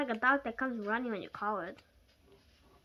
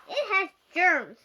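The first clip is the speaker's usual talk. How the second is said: higher, louder, slow disgusted warning; panicked warning; 6 semitones higher, 8 dB louder, slower than usual. Acted. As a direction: warn with disgust. Mom panicked about the mouse.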